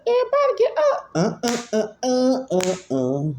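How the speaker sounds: high-pitched, fast party call; excited hype cry. Retold or imitated. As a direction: whoop it out like a singer hyping the crowd. Acts out a singer's hype line.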